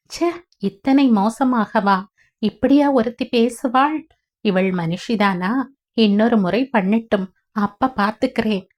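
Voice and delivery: understated indignant grandmother; a touch of hurt fury; mild anger. Acted. Grandmother fumes about her daughter after the call, mildly angry. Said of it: "கோபத்தில்".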